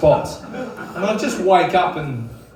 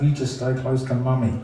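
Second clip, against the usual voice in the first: side-of-mouth warning; 3 semitones lower than usual. Retold or imitated. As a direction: imitate a mother talking out of the corner of her mouth. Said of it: "talk out the side of her mouth".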